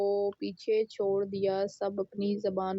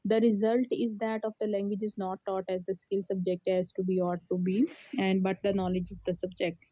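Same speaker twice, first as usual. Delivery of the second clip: reading an English text aloud, slowly and deliberately; slow, careful classroom read-aloud; slow textbook reading; much slower than usual. Acted. Teacher reads English textbook slowly.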